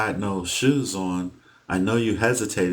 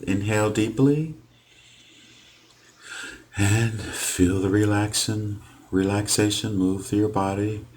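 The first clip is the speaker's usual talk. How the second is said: guided relaxation. Real, not acted. Hypnotist settling a client into where they are, guided relaxation.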